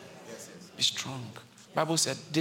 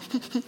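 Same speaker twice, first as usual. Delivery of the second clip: imitated sobbing; 8 semitones higher than usual. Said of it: "his cry was not stopped".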